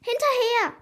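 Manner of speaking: high, excited battle cry; shouting. A narrator's reading. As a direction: cry out to start the chase. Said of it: "schrie Noah".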